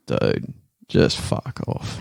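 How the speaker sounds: slow, low-key ocker Aussie drawl; broad Aussie, dragged out and unbothered; broad Australian accent. Pretend. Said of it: "my broadest Australian accent".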